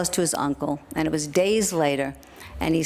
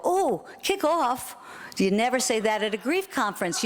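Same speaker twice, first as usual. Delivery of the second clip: mock correction; 5 semitones higher than usual. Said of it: "and then I would go".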